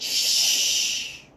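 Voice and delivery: hushed lion shush; lion silencing the zebra; whispered shush. A narrator's reading. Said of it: "So the lion said".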